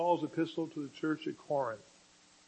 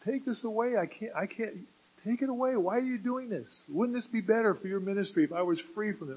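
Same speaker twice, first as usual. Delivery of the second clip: pleading with God; 5 semitones higher than usual. Acted. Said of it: "And he says".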